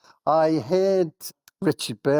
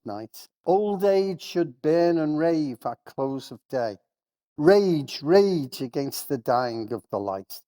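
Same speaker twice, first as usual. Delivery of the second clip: poem recital; 2 semitones higher than usual. Acted. Speaker reads Dylan Thomas to colleagues as an appeal, grandly. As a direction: declaim each line like a rallying cry.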